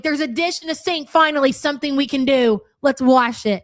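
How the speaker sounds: bright, eager mock glee over a single dish; mock excitement. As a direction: play it like a bored person thrilled by a chore. You'd be like.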